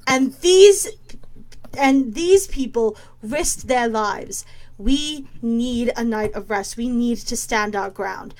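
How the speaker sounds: slow, tired but steady argument; weary firm plea. Acted. Falgrim reasoning with Valeska about rest, slow and weary. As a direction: lay it out slowly and wearily. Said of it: "and goes".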